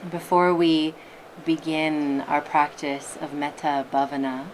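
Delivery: unhurried meditation guide, long pauses between phrases; guided meditation. Acted. Teacher settling listeners into their meditation posture, guided meditation voice. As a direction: ease them gently into stillness, leaving space.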